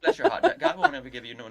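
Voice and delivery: very high, loud put-on coo; mock consoling busybody. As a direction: squeal out syrupy mock sympathy. Echoing co-host's bless-your-heart act.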